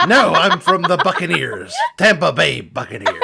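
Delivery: laughing through the words; real laughter mid-joke. Real, not acted. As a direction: giggle it out. Pirate joke while laughing.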